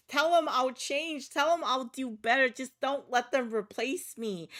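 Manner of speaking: high, loud, terrified begging; desperate plea. Acted. Emiliano begging the new hire, frantic and loud. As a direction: plead like they're about to kill you. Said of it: "sobbing choke pleas".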